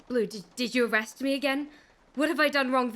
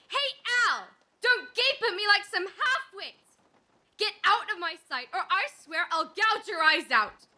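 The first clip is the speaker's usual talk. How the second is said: higher, scolding rage; angry outburst; 6 semitones higher than usual. Acted. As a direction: lash out at the gaping men. Woman rages at the men.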